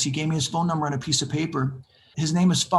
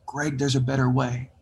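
mysterious voice; 5 semitones lower than usual. Retold or imitated. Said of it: "I hear this voice".

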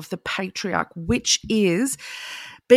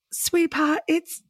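a light imitation of a Southern American accent, higher; sweetly imitating a Southern American mum; lightly voiced Southern American mother, soothing; 10 semitones higher than usual. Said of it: "I don't know why she's got a southern accent".

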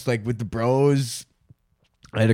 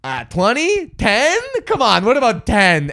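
haggling; 4 semitones higher than usual. Retold or imitated. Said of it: "Abraham's like".

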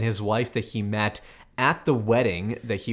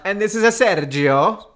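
hammed-up Italian with "a Sergio", higher and louder; mock Italian accent; 7 semitones higher, 5 dB louder than usual. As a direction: play the bad Italian accent for a laugh. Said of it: "Bad accents".

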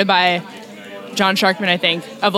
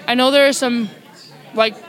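chewing while talking; 2 semitones higher than usual. Real, not acted. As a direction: mouth full, chewing between words. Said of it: "I'm sorry, I'm chewing".

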